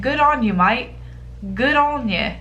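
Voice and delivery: a half-hearted Aussie-British "good on you, mate"; failed British accent. Retold or imitated. Reacting to the Reddit story, cheering the guy in a weak British accent. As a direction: throw on a weak British accent, barely there. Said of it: "I don't have a British accent, apparently".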